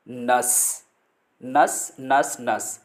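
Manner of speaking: नर्स said nus with no r; silent r. Shown as a demonstration. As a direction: drop the r in नर्स. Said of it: "आर silent रखना है और बोलना है नर्स".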